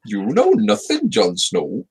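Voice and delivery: hammed-up bad Welsh accent. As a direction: attempt a Welsh accent and miss. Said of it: "That was not a Welsh accent".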